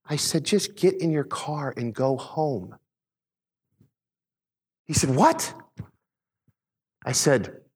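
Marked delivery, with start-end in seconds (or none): 0.5-2.8 slow, evenly paced instruction; slow, calm order. Retold or imitated. Dad telling a stranger to go home, slow and calm. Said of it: "I said it slower". 5.2-5.5 very high, rising mock-baffled question; baffled retort. Stranger answering dad's order, high and incredulous.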